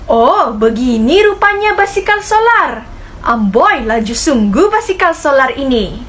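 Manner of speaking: Kalang's voice. Acted. Kalang voiced in class dialogue.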